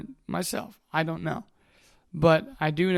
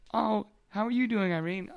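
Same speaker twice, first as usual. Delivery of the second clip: cheery high greeting; 5 semitones higher than usual. Retold or imitated.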